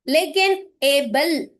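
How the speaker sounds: एबल said slowly and clearly; sounding out a word. Shown as a demonstration. Teacher showing trainees the word, slow and clear. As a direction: draw out एबल so each sound is heard. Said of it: "ल, ई का sound नहीं आ रहा".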